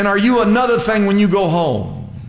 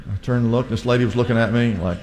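ordinary delivery

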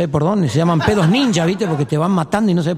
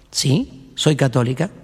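landlady voice; 6 semitones lower, slower than usual. Acted. Landlady answers.

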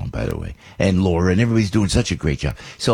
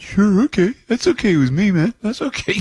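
high, eager yes-man voice; mock pushover; 13 semitones higher than usual. Host retelling how he caved to every request, high and eager.

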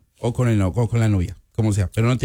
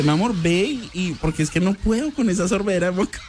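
laughing while quoting; 5 semitones higher than usual. Acted. Acts partner, laughing through it.

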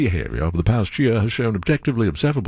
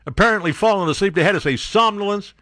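high, scoffing at the fancy word; pitched up in amused disbelief; mocking exasperation; 7 semitones higher than usual. Real, not acted. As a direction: poke fun at the jargon.

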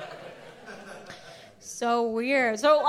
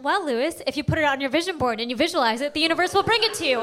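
petty mockery; faster than usual. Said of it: "I know this is very petty".

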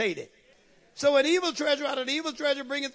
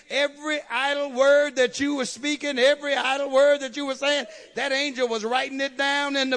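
preaching; 2 semitones higher, 4 dB louder than usual. Acted. Preaching build.

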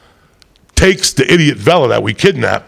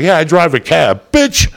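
Jersey roommate voice; 5 semitones higher, slower than usual. Retold or imitated. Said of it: "he's from Jersey".

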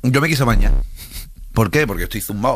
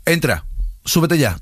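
serious order; 4 semitones higher, slower than usual. Retold or imitated. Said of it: "todo serio".

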